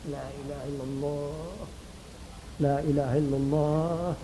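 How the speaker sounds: hushed, breathy, very soft; whisper. Shown as a demonstration. Preacher showing how to whisper the creed to the dying. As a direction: whisper it into a dying man's ear. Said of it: "bisikkan ke telinganya".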